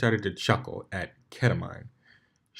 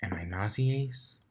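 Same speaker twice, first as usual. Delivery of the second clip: whispered, slow and drugged; dazed whisper; 7 dB quieter than usual. Acted. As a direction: breathe it out, woozy and drowsy.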